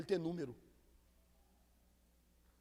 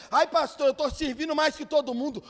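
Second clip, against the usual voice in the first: boastful churchgoer; 5 semitones higher, 7 dB louder than usual. Retold or imitated. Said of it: "você tá aqui na igreja".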